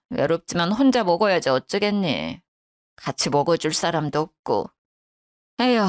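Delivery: low, mildly mournful grumble ending in a sigh; poor-me grumbling, understated; self-pitying lament. A narrator's reading. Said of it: "계속 신세 타령만 했죠".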